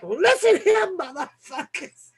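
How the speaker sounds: high-pitched imitation of an angry drinker; mock angry outburst. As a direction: burst out in mock warning, then drop off.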